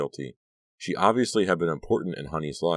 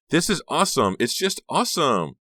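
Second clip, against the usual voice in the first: put-on high, loud girlish glee; thrilled exclamation; 11 semitones higher, 5 dB louder than usual. A narrator's reading. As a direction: squeal with delight. Honey thrilled at the reunion.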